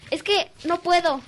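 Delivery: put-on high, slow, eerie child's plea; boy in class, slow and high; creepy kid voice. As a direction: drag it out like an odd child. Strange boy voiced in story.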